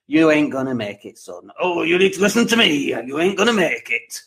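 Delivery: mock northern English accent, a touch put on; lightly put-on northern English accent, like a gruff local; imitated northern accent. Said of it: "in that very northern accent".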